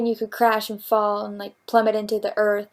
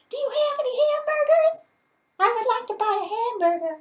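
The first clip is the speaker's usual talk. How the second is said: high British accent; 11 semitones higher than usual. Shown as a demonstration. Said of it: "in a British accent?".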